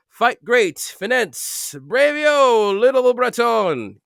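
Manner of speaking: high, loud excited roll call; rising glee in each name; excited build. Acted. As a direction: sing out the names with gusto. Exuberant list of names.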